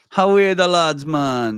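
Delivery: failed Geordie accent sounding Jamaican. Trying a geordie accent again after being told it sounded jamaican: geordie attempt that sounds jamaican. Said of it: "that's Jamaican".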